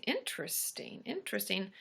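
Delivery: soft pondering interesting; musing whisper. Real, not acted. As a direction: murmur it to yourself. Musing on yawning fact.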